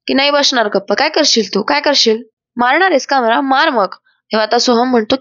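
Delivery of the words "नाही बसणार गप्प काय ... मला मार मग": higher-pitched defiant back-talk; a touch of cheeky challenge in a retold quarrel; mildly insolent. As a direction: throw out taunting questions, lightly acted. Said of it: "अनामिका त्याला उद्धटपणे".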